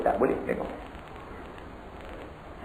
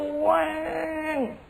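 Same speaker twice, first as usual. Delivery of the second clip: engine whine; 4 dB quieter than usual. Retold or imitated. Bunyi motor lalu.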